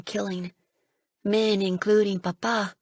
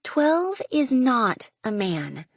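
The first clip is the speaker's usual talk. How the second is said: slow, pointed comeback; retort; 4 semitones higher, much slower than usual. Acted. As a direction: lay each word down to win the point. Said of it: "I retort".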